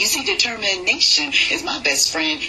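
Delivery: rhythmic, steady poem recital; spoken word poem. Acted. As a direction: ride the rhythm of the verse.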